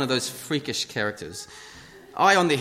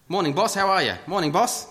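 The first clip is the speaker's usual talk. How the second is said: bright, higher, louder hello; cheery greeting; 6 semitones higher, 3 dB louder than usual. Retold or imitated. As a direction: greet a customer breezily. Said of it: "I just call them boss".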